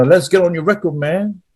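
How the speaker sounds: put-on a slightly botched New York accent; bad New York accent. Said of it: "That's a bit bad of an accent".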